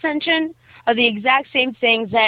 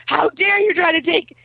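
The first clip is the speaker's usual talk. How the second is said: higher-pitched mock indignation; mad; 6 semitones higher than usual. Boy objects to bully taking his credit, mock mad. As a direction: imitate an outraged poet, mildly heated. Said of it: "he's all mad".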